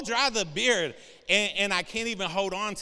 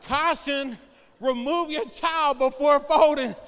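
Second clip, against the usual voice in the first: label read aloud; 7 semitones higher, 8 dB louder, slower than usual. Pretend. Reading a stroller warning aloud.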